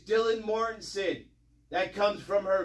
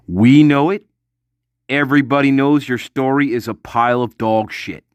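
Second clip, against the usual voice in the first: loud; 9 semitones lower, 8 dB louder than usual. Real, not acted. Loud callout to Dylan.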